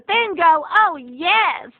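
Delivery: put-on high, delighted old-lady voice; grandma perking up when offered bingo, high and eager. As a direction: perk right up at the word bingo. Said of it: "And Grandma says".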